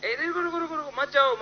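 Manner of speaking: high-pitched hurried "wait" without shouting; urgent high call, kept fairly soft; calling to stop. Real, not acted. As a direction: call people back, pitch jumping up. Stopping people leaving the stage.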